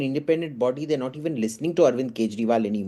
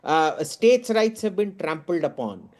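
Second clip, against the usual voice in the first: mock outraged opponent; 5 semitones higher than usual. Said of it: "you will say".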